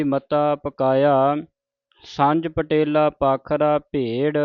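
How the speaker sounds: measured, chanted reading of sacred verse; scripture recitation. Shown as a demonstration. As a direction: recite each line deliberately, with pauses.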